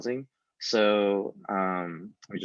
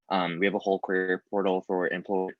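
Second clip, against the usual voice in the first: mouth full. Real, not acted. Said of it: "I'm chewing on a cough drop".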